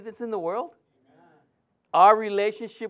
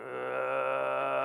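low growl; 7 semitones lower, 8 dB quieter than usual. Retold or imitated. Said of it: "she started growling".

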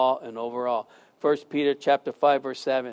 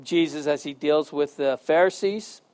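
prayer. Acted. Closing prayer.

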